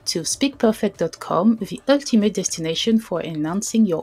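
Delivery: presenting a product in French-accented English; English pitch with a French accent, bright hello to start. Real, not acted. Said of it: "ne jugez pas mon accent". (accent français en anglais)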